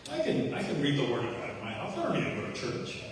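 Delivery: lightly played self-righteous brush-off; prideful, arrogant. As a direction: imitate a proud man brushing off church. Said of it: "Very prideful, arrogant man".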